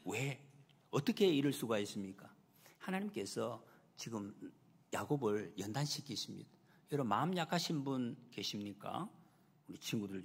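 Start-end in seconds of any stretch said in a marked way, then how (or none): none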